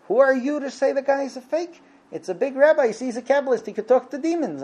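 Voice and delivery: high-pitched, affronted protest; high mock-outraged retort; indignant challenge. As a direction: take on the doubter as an outraged believer. Offended believer challenges the skeptic.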